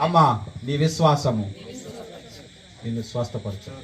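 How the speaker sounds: low, hushing pronouncement with a long pause; solemn reassurance. Acted. Speaking to a woman about her healing faith, solemn low reassurance. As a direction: drop low and let it settle softly.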